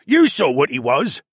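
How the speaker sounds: arguing polar bear. A narrator's reading. Polar bear pressing his case, arguing loudly. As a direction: insist forcefully as the bear. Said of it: "the polar bear argued".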